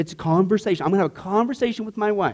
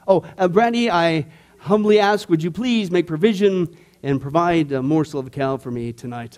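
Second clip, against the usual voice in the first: mock formal prayer; 4 semitones lower than usual. Pastor addressing his wife in prayer-formula steps, lower and mock-humble. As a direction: beg like a rehearsed supplication. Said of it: "this is the only way I can approach her".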